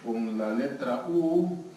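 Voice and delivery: slow, drawn-out imagined answer; lightly voiced someone thinking aloud; hesitant volunteer. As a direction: stretch the words like someone working out a guess. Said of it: "si alguien dice".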